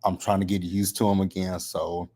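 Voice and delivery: slight lisp from new braces; talking with braces. Real, not acted. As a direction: speak around fresh braces with a lisp. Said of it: "if I sound a little funny, I have braces in my mouth".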